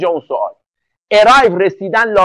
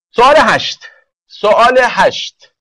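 raised voice, repeated for the class; calling out; 3 semitones higher, 4 dB louder, slower than usual. Real, not acted. Teacher summoning answers to question eight, calling out. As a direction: call the question number out to everyone.

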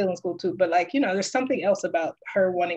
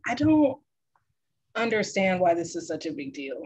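put-on annoyed kid. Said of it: "She was so annoyed".

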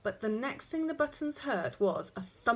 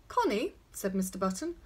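coaxing call; 5 semitones higher, 4 dB louder than usual. A narrator's reading. Father calls child to a test.

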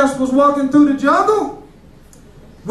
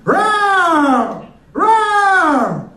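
a roar that climbs higher each time; lion roar; 4 semitones higher than usual. Pretend. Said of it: "And he'll be like".

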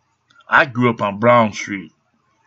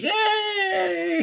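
squeaky falsetto yay, way higher and softer; mock Leafy cheer; 6 dB quieter than usual. Mocking Leafy's celebration with a squeaky high yay. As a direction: mimic a giddy YouTuber squealing with joy. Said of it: "And he's like".

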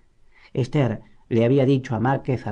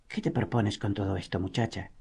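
quiet, lofty disdain; arrogant; 2 semitones lower, 9 dB quieter than usual. A narrator's reading. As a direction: talk down to the girl. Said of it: "El arrogante tono de su voz".

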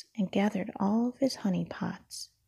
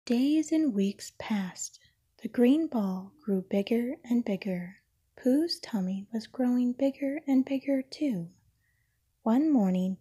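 whispered bedtime story. A narrator's reading. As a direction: breathe the story out like an ASMR bedtime read.

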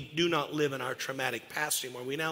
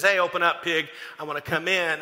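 big bad wolf; 5 dB louder than usual. Wolf voiced in pigs story.

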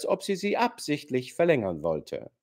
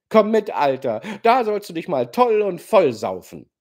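loud mocking invitation; 6 semitones higher, 6 dB louder than usual. A narrator's reading. Rogoschin mocks the old man.

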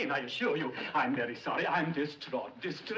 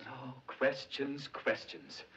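weary exasperation; 2 semitones lower, 5 dB quieter, much slower than usual. Acted. Exasperated at child's questions.

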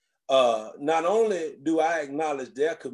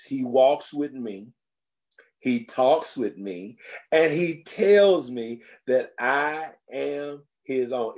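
sage aunt's voice; 3 dB louder, slower than usual. Retold or imitated. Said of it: "They would say it like this".

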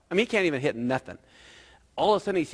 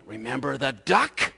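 slow, pointed reminder; teasing little blackmailer; sly blackmail. Acted. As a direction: drag it out as a veiled threat. Sally blackmails Johnny.

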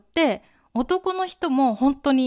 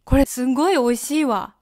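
flat falling わ at the end; 4 dB louder, faster than usual. Shown as a demonstration. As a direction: let the わ fall, casual. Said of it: "下げます".

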